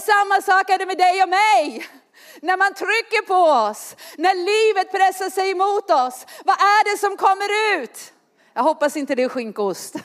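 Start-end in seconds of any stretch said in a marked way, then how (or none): none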